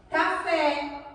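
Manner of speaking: café with an open, clearly sounded é; som aberto. Shown as a demonstration. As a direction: open up the final vowel of café. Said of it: "O som ele sai mais aberto". (café com o é final bem aberto)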